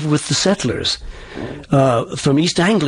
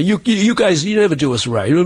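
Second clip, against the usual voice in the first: complaining Boston natives; 3 semitones higher than usual. Retold or imitated. Coach imitating natives griping about accents, complaining Boston voice. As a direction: grumble like an aggrieved Bostonian. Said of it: "All the Boston natives say".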